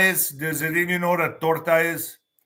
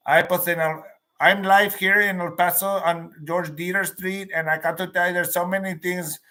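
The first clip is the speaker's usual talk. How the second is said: El Paso newscaster. Retold or imitated. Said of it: "They all talk like that".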